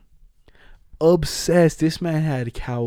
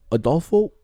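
mock realization; 7 semitones higher, 3 dB louder than usual. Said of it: "'Cause, uh, like".

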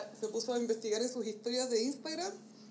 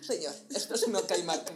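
lower, loud deadpan repeat with a laugh; meme echo; 4 semitones lower, 5 dB louder than usual. Retold or imitated. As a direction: echo the line flatter and lower. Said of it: "repeat of the meme".

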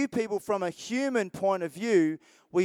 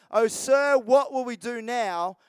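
a hint of a terrified young servant; frightened cry; 3 semitones higher, 4 dB louder than usual. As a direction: plead with your master in sudden alarm. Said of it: "the young man cried to Elisha".

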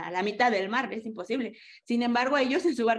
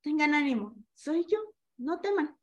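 loving, reassuring; 5 semitones higher than usual. Retold or imitated. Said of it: "Pero muy amoroso dijo".

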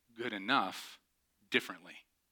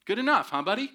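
high mocking sarcasm, a touch louder; sarcastic; 9 semitones higher, 5 dB louder, faster than usual. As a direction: sneer it at the contractor. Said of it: "saw it and thought".

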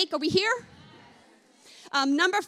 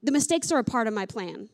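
gentle comforting Spirit; 3 semitones lower, 3 dB quieter than usual. Retold or imitated. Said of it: "He said".

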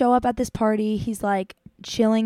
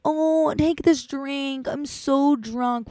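put-on drunk guy; 4 semitones higher, much slower than usual. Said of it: "all drunk weird".

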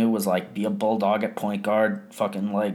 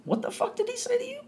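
retold angry outburst; 5 dB quieter, faster than usual. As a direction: replay your own furious reaction half-acted. Repeats the angry question.

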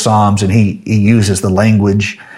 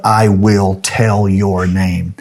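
slow emphatic praise; slower than usual. Retold or imitated. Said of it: "Not simply, "Thank you," but".

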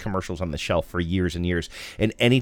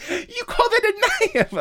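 much higher, slow laughing Aussie voice; Australian accent; slower than usual. Retold or imitated. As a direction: do a hammy Crocodile Dundee. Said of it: "Jay Leno in the Outback".

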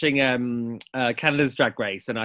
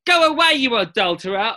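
1 Kim Woodburn quote; 7 semitones higher, 4 dB louder than usual. Retold or imitated. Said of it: "the dance version".

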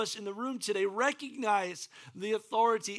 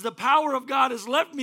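startled exclaim; 4 semitones higher, 8 dB louder than usual. Acted. Jesus realizing power left him.

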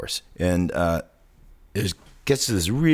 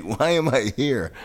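higher, slowed mock exasperation; drawn-out, put-upon complaint in imitation; imitated exasperation; 4 semitones higher than usual. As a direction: act out a friend fed up with the movie. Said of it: "madder and madder".

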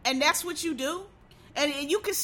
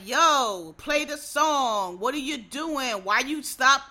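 fed-up demand; 4 dB louder than usual. Retold or imitated. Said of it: "everybody was like".

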